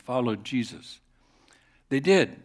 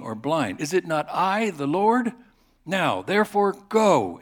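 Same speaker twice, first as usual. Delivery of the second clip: stern God; 4 semitones higher, 5 dB louder than usual. Acted. God rebukes Moses.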